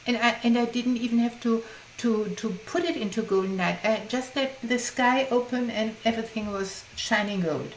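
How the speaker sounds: lightly lifted, eager retelling; a touch of delight, voicing her joy; retold enthusiasm. Workshop participant telling the group her migraine lifted, mildly excited. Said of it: "she was very enthused in the group".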